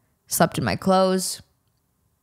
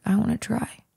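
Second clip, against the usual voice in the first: whispered; 3 semitones higher, 5 dB quieter than usual. Retold or imitated. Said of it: "And I said".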